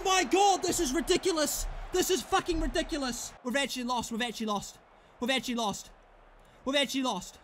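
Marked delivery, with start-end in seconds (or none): 3.4-7.4 low, deflated repetition; stunned disbelief. Real, not acted. Player realising the match is lost, stunned and deflated. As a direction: let the defeat sink in, each repeat falling.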